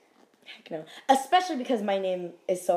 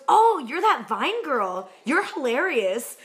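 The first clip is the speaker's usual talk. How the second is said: slow, drawn-out greeting, a touch louder; imitated delighted recognition; 2 semitones higher, 4 dB louder, slower than usual. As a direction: play a star pleasantly recognizing someone. Retold star recognizing a fan.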